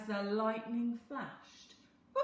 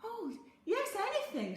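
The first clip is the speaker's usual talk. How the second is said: grateful; 12 semitones higher, 6 dB louder than usual. A narrator's reading. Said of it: "said Isabel gratefully".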